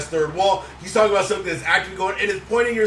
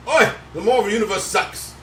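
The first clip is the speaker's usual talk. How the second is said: put-on Australian accent; 2 semitones higher than usual. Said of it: "That your Australian accent?".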